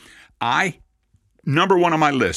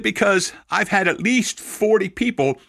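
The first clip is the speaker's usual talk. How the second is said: higher, amazed telling; amazed explanation; 8 semitones higher than usual. Retold or imitated. Rabbi voicing an amazed Cahn explaining, pitched higher. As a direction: tell it still in disbelief.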